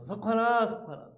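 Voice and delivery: imitated call through the door; calling from outside. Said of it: "누가 저를 부르는 거예요". (밖에서 이름을 부르는 소리)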